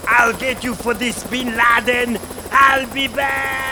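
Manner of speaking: sputtering foiled villain. Acted. Vowing revenge while fleeing.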